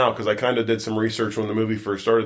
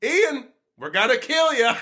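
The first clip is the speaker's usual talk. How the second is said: high, slow, laughing fake menace; mock threat, laughing; 12 semitones higher, slower than usual. Cousin teasing the new boyfriend, high laughing mock threat. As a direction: stretch out a joking threat through a laugh. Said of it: "and he goes".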